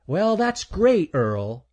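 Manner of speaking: high, slow, put-upon squirrel voice; annoyed squirrel. Acted. Squirrel answers the boasting chipmunk, high drawn-out voice. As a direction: drag it out high, unimpressed.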